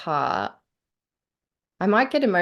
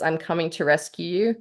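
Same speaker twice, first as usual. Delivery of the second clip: rescuing reading. Shown as a demonstration. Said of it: "One is".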